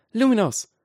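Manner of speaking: put-on high, loud girl's spell cry; high-pitched battle call. A narrator's reading. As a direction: shout the spell high and sharp. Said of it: "rief Granger".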